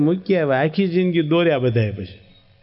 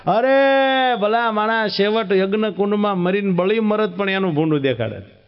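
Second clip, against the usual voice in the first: exasperated rebuke; 4 semitones higher than usual. Acted. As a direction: lean on each word in disbelief. Uncle berating nephew.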